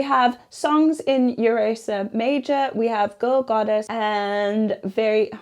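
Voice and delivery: flat, robotic delivery; sounding accidentally robotic. Real, not acted. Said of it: "why do I sound robotic?".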